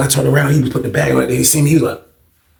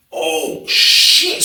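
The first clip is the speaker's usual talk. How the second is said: shocked exclamation. Real, not acted. Shocked at the fight.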